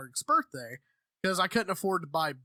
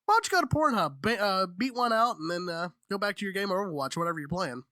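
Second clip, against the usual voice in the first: mock ad read. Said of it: "be like".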